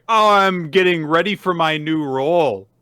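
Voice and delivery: high, loud acted excuse; flustered cover-up. Kana covering up her confession, flustered excuse. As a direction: announce the excuse loudly to cover a slip.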